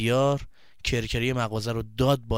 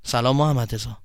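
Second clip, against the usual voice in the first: embarrassed; 2 semitones lower than usual. Acted. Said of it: "مهدیار خجالت زده گفت".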